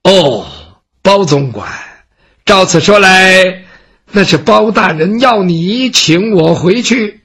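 slow, measured, lightly voiced proud scholar; proud poor scholar. Gongsun Ce answers the servant, slow and dignified. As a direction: weigh each word with dignity.

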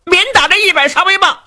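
lightly voiced fat sworn brother, begging earnestly; fat brother Du Cha pleading. Du Cha begs Luo Cheng to ask the prince, pleading. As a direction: plead with your young brother, voice rising.

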